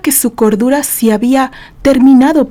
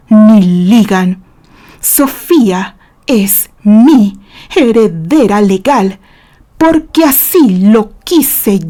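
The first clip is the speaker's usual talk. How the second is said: shouting defiance; slower than usual. Acted. Red-haired man shouting his truth before the court, slow and defiant. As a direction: spit each word at the rival, slowly. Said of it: "gritó ante todos".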